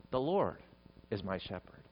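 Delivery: soft and low, reflective; said to oneself. Shown as a demonstration. Preacher models saying the psalm to his own soul, softly reflective. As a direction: say it quietly to your own soul. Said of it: "say it to your own soul".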